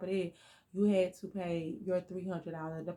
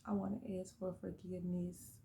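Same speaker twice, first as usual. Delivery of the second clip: choked up; 9 dB quieter than usual. Real, not acted. Tearful prayer continues.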